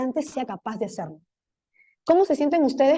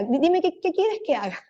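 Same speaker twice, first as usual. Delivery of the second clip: higher, pleading confused student; a lost pupil begging the teacher for clarity; 6 semitones higher than usual. Acted. Confused student asks teacher what to do, higher and pleading.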